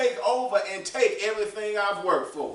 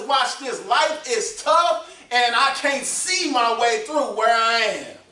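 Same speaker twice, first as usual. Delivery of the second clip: building impassioned confession; 5 dB louder than usual. Acted. Preacher voicing honest struggling believer.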